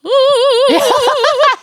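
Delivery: squeaky high-pitched giggle; a tiny squealing laugh. Shown as a demonstration. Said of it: "that's kind of the sound".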